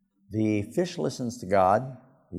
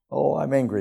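angry; 5 semitones higher, 5 dB louder than usual. Acted. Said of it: "he's very angry".

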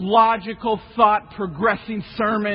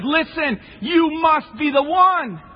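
accusing; 6 semitones higher, slower than usual. Acted. Bystander accuses Peter.

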